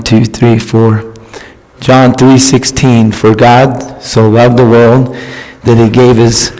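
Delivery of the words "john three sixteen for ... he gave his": scripture reading. Acted. Reads scripture at the mic.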